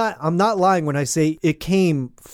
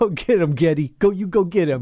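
put-on Italian mobster accent. Joking about the owner of the company that licenses music, in an Italian mobster voice. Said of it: "it sounds like an Italian mobster".

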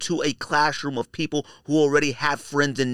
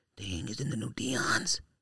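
mock whisper, quieter; 2 semitones lower, 10 dB quieter than usual. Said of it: "you can hear a little bit of whisper".

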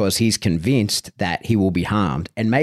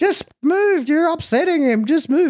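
mock yelling, pitched very high. Retelling a dog owner yelling at him over a barking dog, imitating someone yelling. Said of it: "the owner is like yelling at me".

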